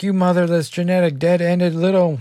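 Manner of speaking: all-out shrill, loud screaming tirade. Recapping a comic scene, the speaker acts out Jono screaming. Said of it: "he's just like screaming like".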